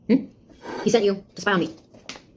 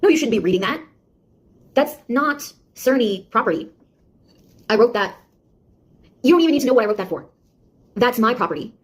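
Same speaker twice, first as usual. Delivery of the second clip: indignant; 2 semitones higher than usual. Acted. Defensive outburst at snooping bot.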